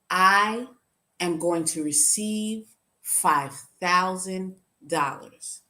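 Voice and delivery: slow, deliberate declaration with spaced words; godly voice. Retold or imitated. Mentor showing her how to declare money, lightly voiced godly voice. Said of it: "say in your godly voice".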